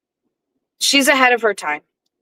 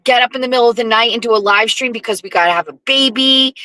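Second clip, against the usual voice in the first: usual speaking voice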